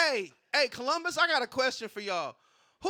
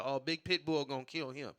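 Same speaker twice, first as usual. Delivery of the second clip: hushed dread; 9 semitones lower, 6 dB quieter than usual. Retold or imitated. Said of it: "It's like".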